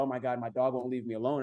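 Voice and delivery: imitating an annoyed dog owner; lightly mocking a fed-up pet owner; mock frustrated whine. Imitating frustrated dog owners with a mild mock whine. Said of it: "a lot of people get frustrated".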